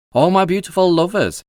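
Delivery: proud airline steward showing off; proudly. A narrator's reading. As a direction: savour the words like a proud boast. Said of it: "rather proudly".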